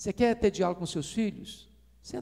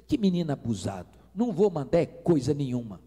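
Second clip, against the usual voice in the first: mild mock rant; 4 semitones lower than usual. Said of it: "o cara tava esbravejando".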